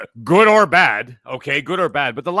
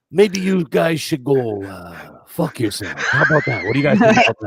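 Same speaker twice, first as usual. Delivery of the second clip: put-on Italian accent; 2 semitones lower than usual. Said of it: "Anytime you do a fucking Italian accent like that".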